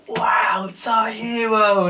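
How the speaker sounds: high awed whisper-squeal; awed kids. Retold or imitated. Kids shining-eyed at their hero, high and awed. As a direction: breathe it out in awe.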